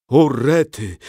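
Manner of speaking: put-on a boy's alarmed exclamation; a mild fright out loud; frightened gasp. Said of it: "przeraził się Piotrek".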